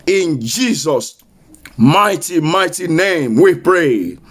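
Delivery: low and slow, drawn out; solemn prayer close. Acted. Closing the prayer.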